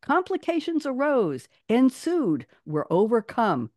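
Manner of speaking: amateur pirate captain, pitched high then falling; bad Johnny Depp as Jack Sparrow. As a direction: declaim it in short, separate phrases. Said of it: "I don't do a good Johnny Depp either".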